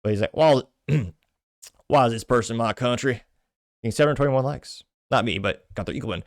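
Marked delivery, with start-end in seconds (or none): 0.4-4.8 lightly put-on Texas Southern voice; Southern accent. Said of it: "did you hear it with a Southern accent".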